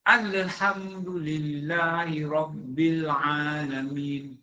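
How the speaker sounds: Alhamdulillahi rabbil alamin chanted very slowly; measured Quran recitation. Shown as a demonstration. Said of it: "Dengar eh".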